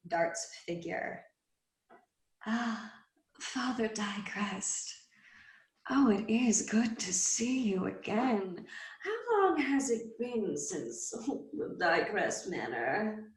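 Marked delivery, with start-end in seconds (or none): 2.5-13.3 lightly higher, slow silky fiend; fiend's voice. Acted. The she-fiend greeting Father Dycrest at the crossroads, a hint of silky menace. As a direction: greet him like an old sly friend.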